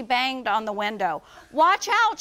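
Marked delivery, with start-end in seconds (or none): 1.5-2.2 loud, high warning cry; urgent shout. A narrator's reading. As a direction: yell out the window in alarm. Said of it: "she shouted".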